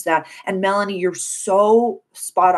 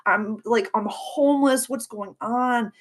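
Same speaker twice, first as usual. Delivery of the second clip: high, distressed voice of a past self; mildly acted tearful confusion; imitated crying; 5 semitones higher than usual. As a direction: plead it higher, as if upset. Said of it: "I just feel her crying, being like".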